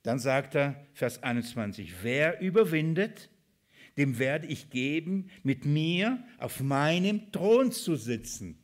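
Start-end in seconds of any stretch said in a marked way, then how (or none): 2.0-8.6 slow, raised, solemn proclamation; scripture reading. Acted. Preacher reading the promise to those who overcome, emphatic scripture reading. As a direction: declare the promise with drawn-out emphasis.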